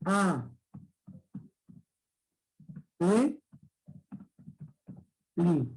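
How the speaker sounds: "A, le, li" spaced out with pauses; syllable by syllable. Shown as a demonstration. Teacher sounding out syllables slowly for students. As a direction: give each syllable alone. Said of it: "¿Y cómo sería el de li?".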